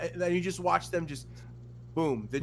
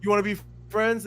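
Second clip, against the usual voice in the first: put-on kid voice; 5 semitones higher, 4 dB louder than usual. Kids acted.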